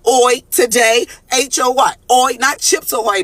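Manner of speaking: Oi said slow and loud like oy; Spanish word hoy. Shown as a demonstration. Teaching viewers Spanish, slow clear oi. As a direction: spell out H O Y, drawn out. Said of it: "we're gonna do Spanish lessons".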